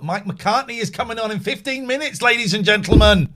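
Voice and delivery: loud, booming showman call; announcer voice. Acted. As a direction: announce it to the crowd. Announcing upcoming radio guest.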